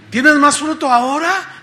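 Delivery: loud, high-pitched acted question; the Lord questioning. The Lord checks on the fruit, questioning loudly. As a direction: demand an update from the disciple. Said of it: "que el Señor diga".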